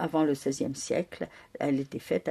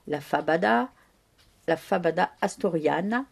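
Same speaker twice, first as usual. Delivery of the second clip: lightly Spanish-accented dish name. Shown as a demonstration. To the audience, naming the Spanish dish with a Spanish accent. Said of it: "je ne vous garantis pas mon accent espagnol".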